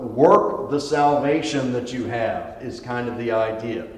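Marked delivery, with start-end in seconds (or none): 0.0-2.6 "Work" drawn out slowly and weighted; stress on Work. Shown as a demonstration. Teacher showing the class Paul's emphasis, stress on "Work". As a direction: lean hard and slow on "Work". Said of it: "Paul's emphasis is on work".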